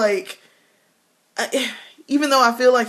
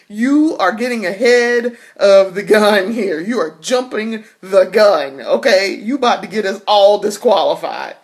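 mock scolding; 3 semitones higher, 6 dB louder than usual. Scolding father.

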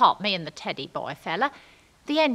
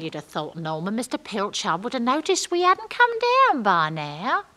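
ordinary talk

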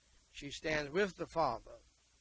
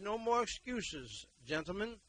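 preaching shout; 7 semitones higher, 4 dB louder than usual. Real, not acted. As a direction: drag out each word, calling the men out. Preacher rebuking fathers.

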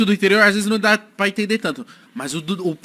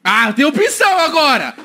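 surprised; 8 semitones higher, 6 dB louder, slower than usual. Real, not acted. Surprised at multiple choice.

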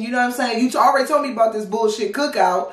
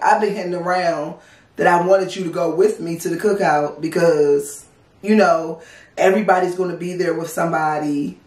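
wimpy; 3 semitones lower than usual. Retold or imitated. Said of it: "you sound so wimpy".

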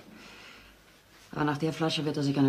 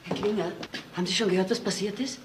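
agitated; 3 semitones higher than usual. Acted. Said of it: "Sie war ziemlich aufgeregt".

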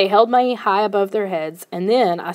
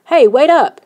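raised, higher call to someone ahead; 6 semitones higher, 7 dB louder than usual. A narrator's reading. Nervous boy calls after his friend to wait, calling out. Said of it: "he called".

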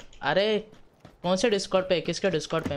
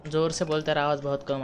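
louder and quick, urging them to speak up; raised voice; 5 dB louder, faster than usual. Real, not acted. Gamer tells teammate on Discord to speak up, louder. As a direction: call out fast over the chat.

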